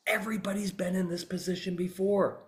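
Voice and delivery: hushed, soft whisper; confiding whisper. Real, not acted. Trainer lets lawyers in on why the question works, confiding whisper. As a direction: drop to a whisper to share a secret.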